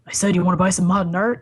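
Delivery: shady peddler repeating the pitch, insistent; lightly voiced street hustler; Sal. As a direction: push the sale from the shadows. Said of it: "He goes".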